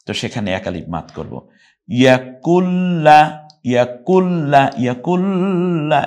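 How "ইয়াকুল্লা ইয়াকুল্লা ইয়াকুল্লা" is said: ইয়াকুল্লা stretched slowly, higher, as the wrong way; wrong reading. Shown as a demonstration. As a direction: drawl ইয়াকুল্লা like a mistake. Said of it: "এভাবে পড়বেন না". (ভুলভাবে টেনে ইয়াকুল্লা)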